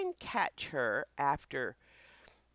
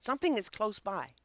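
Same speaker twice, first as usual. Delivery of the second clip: alert dog voice; 5 semitones higher, 4 dB louder, faster than usual. Pretend. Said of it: "They say".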